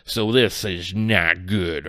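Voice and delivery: put-on rough stab at an Australian or English accent; lightly put-on, uncertain Australian or English accent; attempted Australian-or-English accent. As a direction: imitate a reviewer's accent, badly. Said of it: "in that accent".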